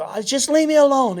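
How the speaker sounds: high, loud retold wail; upset crying kid. Crying son to dad in his room, imitated upset wail. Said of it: "I'm crying".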